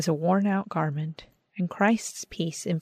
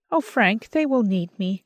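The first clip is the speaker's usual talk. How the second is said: pleading; 4 semitones higher, 4 dB louder than usual. A narrator's reading. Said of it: "I pleaded".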